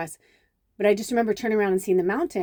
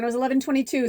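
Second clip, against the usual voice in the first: pleased discovery; 6 semitones higher, much faster than usual. Real, not acted. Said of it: "ooh, when I looked down".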